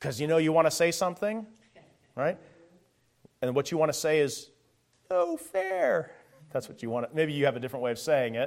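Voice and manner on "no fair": goofy, very high-pitched, creaky silly voice. Speaker voicing the complaint listeners want to make, in a silly voice. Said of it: "You don't use that silly voice".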